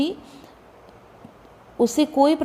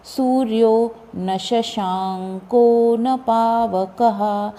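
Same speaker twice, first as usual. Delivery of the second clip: slow, measured chanting of the verse; slow shloka recitation; much slower than usual. Shown as a demonstration. Teacher chanting the Gita verse for students, slow and measured. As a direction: recite each syllable slowly and evenly.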